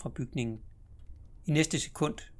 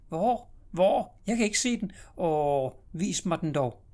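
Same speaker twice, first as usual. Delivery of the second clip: put-on high, loud child asking where; eager little girl; 5 semitones higher, 5 dB louder, slower than usual. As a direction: pester him to show her. Sister searching at the window.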